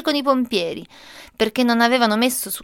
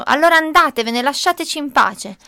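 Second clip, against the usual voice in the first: angry; 4 semitones higher, 5 dB louder than usual. Acted. Mother sends the workers away.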